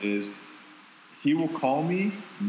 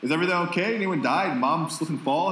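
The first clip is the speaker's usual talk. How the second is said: mock alarm; 6 semitones higher than usual. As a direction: play up the worry that something happened. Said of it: "And I'll be like".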